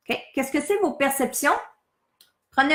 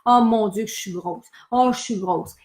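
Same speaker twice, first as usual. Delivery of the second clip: self-pitying moan; 3 semitones lower than usual. Retold or imitated. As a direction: mutter it over and over, low and discouraged. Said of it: "Combien de fois on peut se dire".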